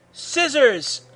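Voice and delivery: high-pitched attack call; shout. A narrator's reading. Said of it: "Goku shouts".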